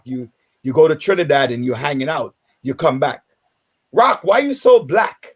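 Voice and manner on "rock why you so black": higher, louder and slower mock taunt; mock teasing question. Mimicking folks in Trinidad teasing about skin, higher and louder. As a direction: mimic a relative's teasing jab.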